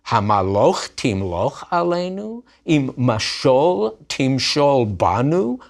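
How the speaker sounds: lightly scornful Hebrew question; mocking Hebrew taunt. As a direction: read it with a sneer. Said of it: "to emphasize their words".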